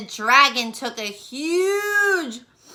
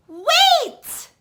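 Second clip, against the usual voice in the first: high, loud cry of wait; shouted; 5 dB louder than usual. Acted. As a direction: call out to stop him. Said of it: "shouted Elizabeth".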